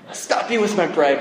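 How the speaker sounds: softened echo of a child's mock heroics; brave little daughter. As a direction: retell a small girl's heroic line. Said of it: "And that's what she says".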